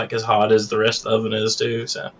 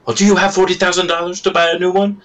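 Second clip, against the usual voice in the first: higher, mocking the boss's retort; a mocking impression of the boss; mock boss reply; 8 semitones higher, faster than usual. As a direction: sneer back as the cheap owner. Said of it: "and it's like".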